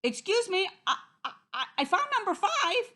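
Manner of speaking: high, eager, stammering wolf; high-pitched polite eagerness; sweetly. A narrator's reading. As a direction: stammer out good news sweetly.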